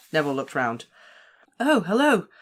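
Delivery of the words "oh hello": much higher, forced brightness; a scared boy pretending all is fine; unnaturally high. A narrator's reading. Neville greets his friends, forced and much higher. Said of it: "his voice much higher than usual".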